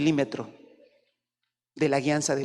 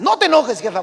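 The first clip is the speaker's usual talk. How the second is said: higher, louder laughing "No te enojes, jefa"; child teasing the mother, laughing; laughing tease; 5 semitones higher, 6 dB louder than usual. Pretend. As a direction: tease the boss with a chuckle.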